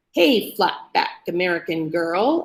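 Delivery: mock Daryl's island accent; mimicking his accent. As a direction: imitate his accent, mocking. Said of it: "mimicking his accent".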